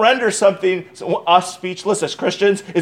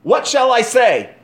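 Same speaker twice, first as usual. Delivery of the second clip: amazed question; 7 semitones higher, 4 dB louder than usual. Acted. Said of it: "Verse fifteen".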